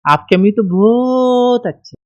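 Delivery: slow taunt, drawing out "बहुत"; stretched sarcastic praise. Retold or imitated. In-law taunts bride about her mother, slow sarcastic stretch. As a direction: praise that stings like a barb. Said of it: "ये जो बहुत खींचती ना".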